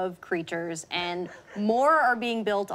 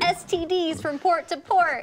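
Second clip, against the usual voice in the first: pirate voice; 8 semitones higher, 3 dB louder than usual. Pretend. Pirate joke riff.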